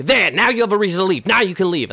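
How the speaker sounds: fast, loud and smug; mocking taunt. Clifton mocking the doused man.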